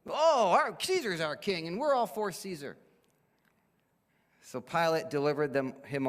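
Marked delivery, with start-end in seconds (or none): 0.1-2.8 mock loyalty. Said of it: "playing this game with Pilate".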